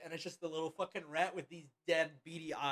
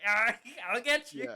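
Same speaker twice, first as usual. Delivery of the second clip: high, slow, laughing tease; playful chasing voice; 8 semitones higher, 8 dB louder, slower than usual. Acted. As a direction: chase the pet, giggling.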